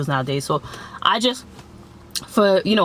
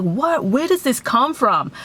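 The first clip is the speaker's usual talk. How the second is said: pitched up, baffled what; shocked disbelief; 5 semitones higher, slower than usual. Retold or imitated. Reacting to the friend's public insults, baffled. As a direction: thrown by her sudden insults.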